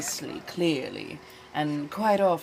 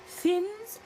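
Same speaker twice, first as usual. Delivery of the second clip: excited; 14 semitones higher than usual. Real, not acted. Excited pick of thin cookies.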